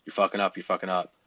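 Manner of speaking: mock demeaning coach, never said for real; demeaning nagging. Shown as a demonstration. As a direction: hammer the same insult at him. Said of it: "I don't say things like".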